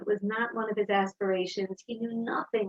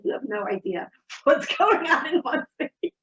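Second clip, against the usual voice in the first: laughing; 4 semitones higher, 4 dB louder than usual. Real, not acted. Mother jokes with son.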